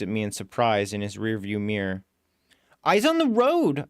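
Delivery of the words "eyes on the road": sharp yell, far higher and a bit louder; shouted warning to the cabbie. Acted. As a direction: bark it at the careless driver. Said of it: "I yell".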